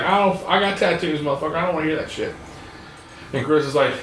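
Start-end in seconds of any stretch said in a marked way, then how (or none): 0.0-2.3 a higher, mock-angry customer snapping back; retold angry customer. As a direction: brush off the tattooer with mock contempt.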